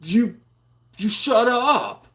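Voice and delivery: high, slow, hammed-up whiny yell; mock angry comeback. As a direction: drag it out like a pouting child mocking an argument. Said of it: "I'm like".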